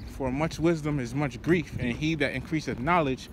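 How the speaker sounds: slow, solemn reading of the verse; scripture reading. Acted. Preacher reading Ecclesiastes to the brothers, slow and solemn. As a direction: let the verse land slowly.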